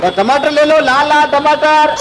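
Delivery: slow sing-song tomato cry; melodic vegetable vendor call. Acted. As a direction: stretch the call out, hawking.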